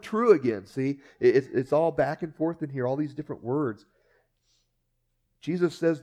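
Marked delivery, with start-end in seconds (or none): 0.0-0.3 true punched higher and louder; stress on true. Shown as a demonstration. Preacher highlighting a key word, emphatic. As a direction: hit the word true hard. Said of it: "And there's that word".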